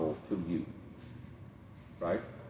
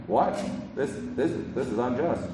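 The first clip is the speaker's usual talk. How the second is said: mock indignation; 3 semitones higher than usual. Preacher voices a contract signer crying unfair, mock indignation. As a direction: stammer like someone feeling cheated.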